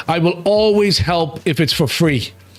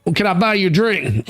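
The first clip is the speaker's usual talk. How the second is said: Southern accent. Shown as a demonstration. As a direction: chat up a lady in a mock Southern accent. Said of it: "I can speak with a Southern accent".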